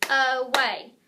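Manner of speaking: syllable by syllable. Shown as a demonstration. Teacher clapping along with the class, "Away" split in two. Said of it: "Let's clap it".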